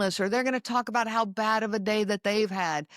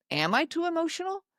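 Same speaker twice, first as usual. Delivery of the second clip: self-doubting; 5 semitones higher than usual. Retold or imitated. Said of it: "you start wondering".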